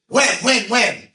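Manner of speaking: high, loud, pleading; eager girl. Retold or imitated. Girl begging the rabbi to say when, high and eager. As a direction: press him eagerly for an answer.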